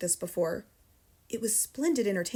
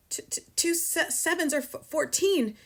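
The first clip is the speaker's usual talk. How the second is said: stammered breathless gasp; 7 semitones higher than usual. A narrator's reading. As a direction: gasp it out in terror. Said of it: "gasped Rupert".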